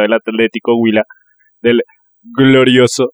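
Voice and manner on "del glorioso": mock-proud glorioso; proud team nickname. Shown as a demonstration. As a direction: sell glorioso like a fan chant. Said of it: "no sé si es glorioso".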